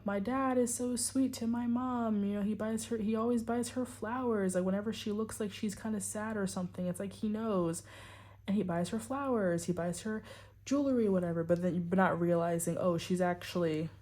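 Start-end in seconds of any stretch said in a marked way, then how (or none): 0.1-11.4 put-on mildly higher, admiring child's voice; naive child. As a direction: lightly voice an innocent kid praising dad. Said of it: "you're just seeing it as".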